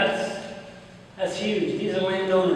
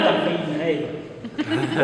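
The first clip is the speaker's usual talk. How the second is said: laughing answer; 2 semitones lower, much slower than usual. Retold or imitated. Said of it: "I'm like".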